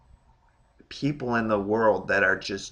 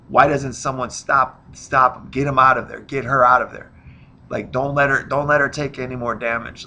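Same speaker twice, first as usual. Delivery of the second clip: louder, mildly alarmed protest; urgent onlooker plea; 5 dB louder than usual. Acted. Onlooker begging the corner to stop the fight, raised urgent voice. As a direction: call out to halt the fight, acted.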